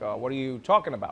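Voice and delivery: a hint of halting presidential speech; Barack Obama. Learner denying the impression, still as Obama. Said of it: "you're doing the Barack Obama thing".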